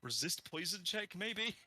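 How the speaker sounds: high, coy rising maybes; teasing. Real, not acted. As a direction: suggest it coyly. Teasing suggestion.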